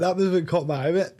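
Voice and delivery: ordinary delivery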